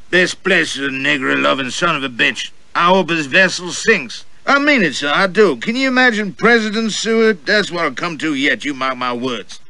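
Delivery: a pompous gentleman sounding off at the next table; loud Southern gentleman. Acted. Gentleman at the next table to his companion, blustering high and loud. Gentleman's voiced dialogue at dinner.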